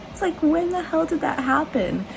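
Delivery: laughing high, then talking. Real, not acted. Laughing at mishap.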